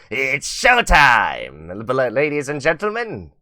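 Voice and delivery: slow, drawn-out showman call; Radio Demon voice. Retold or imitated. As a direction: stretch it like a demon host. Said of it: "Alistair the Radio Demon voice changer".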